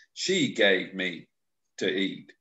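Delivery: "She" leaned on, slow; Adam blaming, "She" emphasized; stress on she. Retold or imitated. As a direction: press hard on "She". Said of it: "he emphasizes the she".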